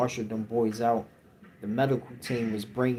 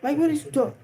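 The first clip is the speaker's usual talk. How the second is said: confused officers; 14 semitones higher than usual. Retold or imitated. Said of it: "And they're like".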